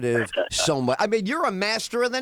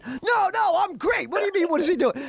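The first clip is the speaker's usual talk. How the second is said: put-on high, puzzled young comic; a touch of naive protest; 13 semitones higher than usual. Young comic to a friend, high naive protest. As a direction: brush off the warning innocently.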